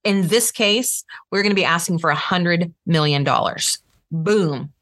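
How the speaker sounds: authoritative, landing low. Shown as a demonstration. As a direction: state it like you own it. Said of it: "you wanna be authoritative".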